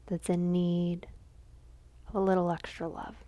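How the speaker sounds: measured dedication with long pauses; contemplative offering. Real, not acted. Lighting a candle for a friend's father, reverent offering. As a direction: let each phrase rest in silence.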